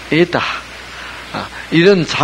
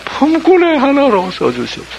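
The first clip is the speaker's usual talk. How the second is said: 품꾼의 pitched much higher in a put-on pleading voice; mock humble plea; 9 semitones higher than usual. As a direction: mimic a falsely humble son begging. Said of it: "이게 뭐예요? 이게 자기 자존심입니다". (품꾼의를 높게 꾸며 낸 비굴한 간청)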